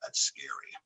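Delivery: breathy hushed awe at a scary man; half-whispered mock fright; imitating awed onlookers in a hush; hushed whoa. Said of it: "would look at you and go".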